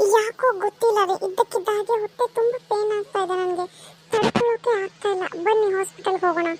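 a pregnant woman gripped by stomach pain. Acted. (ನೋವಿನ ಧ್ವನಿ)

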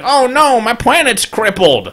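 high-pitched, drawn-out mock lament; mock dismay. Gamer voicing the Empire as it loses a planet, mock dismay. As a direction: play up the helpless "oh no".

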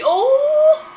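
loud, high startled yelp. Real, not acted. Gamer interrupted mid-sentence, loud high yelp. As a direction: cut yourself off with a sharp loud cry. Cut off by sudden event.

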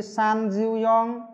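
teacher modelling numbers slowly; slow drill. Shown as a demonstration. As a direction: drag each number out for students to copy. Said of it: "Ba tư là gì?".

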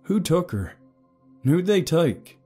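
high, pressing questions; urgent questioning. A narrator's reading. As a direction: press him for answers. Father urgently questions the man.

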